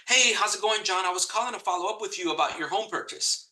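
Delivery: bright, scripted sales opener; salesy pitch voice. Shown as a demonstration. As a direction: sound like a stiff salesperson reading a script. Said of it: "You sound like a salesperson".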